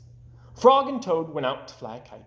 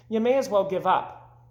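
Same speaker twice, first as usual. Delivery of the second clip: mocking robins; 5 semitones higher than usual. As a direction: drag it out to mock.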